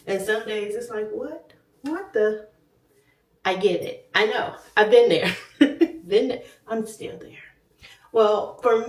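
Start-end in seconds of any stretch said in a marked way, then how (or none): 1.1-2.5 mock disbelief. Acting out bad scale day.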